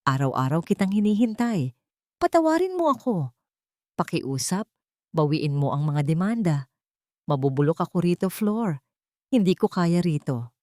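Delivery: a prisoner begging his wife to save him; mild crack in a begging husband's voice; broken pleading. Acted. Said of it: "ay basag at puno ng pagmamakaawa".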